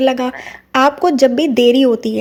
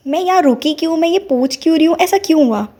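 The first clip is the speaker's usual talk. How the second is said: amazed; 4 semitones higher than usual. Retold or imitated. Realising why she stopped there.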